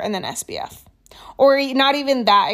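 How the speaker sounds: whispering. Real, not acted. Quick whispered aside in tutorial.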